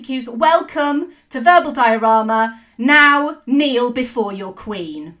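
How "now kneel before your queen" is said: slow, commanding villain queen; evil queen. Acted. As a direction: order them to kneel like a goddess of death. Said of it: "I am not Cate Blanchett".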